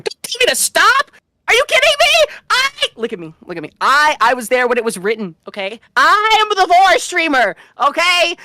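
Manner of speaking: shrill outraged yelling; mock indignant shout. Mock outburst as Vor fan.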